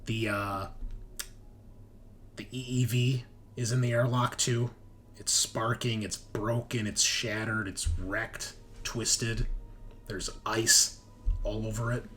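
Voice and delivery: game master narration. Acted. Game master describing the players' mutation and capture, dramatic narration. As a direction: set the scene deliberately, phrase by phrase.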